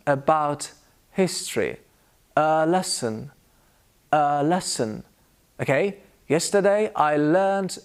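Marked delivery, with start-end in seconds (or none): 2.4-5.0 "A" said as "uh" before lesson; careful repeated model, "a" as "uh"; weak neutral vowel on "a"; schwa in A. Shown as a demonstration. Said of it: "with the word a".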